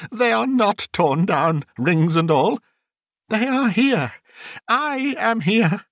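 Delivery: high-pitched, fervent relief; overjoyed cry. A narrator's reading. Scrooge finds his curtains still there, overjoyed. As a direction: exclaim it in rising joy and wonder. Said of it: "cried Scrooge, folding one of his bed curtains".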